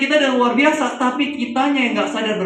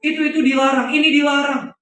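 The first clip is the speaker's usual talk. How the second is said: put-on pitched-up tantrum, a child shouting at dad; angry child; 5 semitones higher than usual. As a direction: throw a little kid's tantrum, higher. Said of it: "anaknya bilang". (anak kecil ngamuk ke papanya, suara tinggi)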